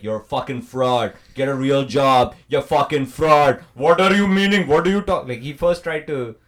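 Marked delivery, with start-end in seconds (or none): 0.0-5.3 retold Indian-accented scolding; imitated outburst in an Indian accent; full Indian accent. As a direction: lay on the Indian accent, indignant. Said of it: "I just became full".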